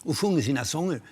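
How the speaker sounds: a producer pitching a cheap location, excited; excited phone plan. Retold or imitated. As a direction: sell the plan with a grin. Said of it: "Så ringde han".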